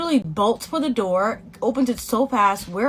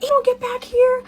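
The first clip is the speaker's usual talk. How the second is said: angry order; 13 semitones higher, 4 dB louder than usual. Retold or imitated. Angry roommate, high and loud.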